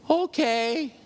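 high, lilting okay; imitated meek agreement. Father takes the nurse's hand and agrees, imitated sweetly in high pitch. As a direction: mimic a suddenly sweet, compliant patient.

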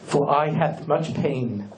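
low, slow, self-abasing supplicant's voice; a hammed-up lowly worshipper praying slowly; groveling pious prayer. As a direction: grovel before the Lord like a pitiful penitent. Mock pious prayer to God.

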